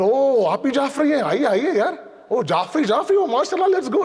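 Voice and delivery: mock delighted greeting rising high, with laughter; over-the-top laughing welcome, rising high; hammed-up clannish welcome. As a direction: play the gushing relative welcoming a fellow Jafri.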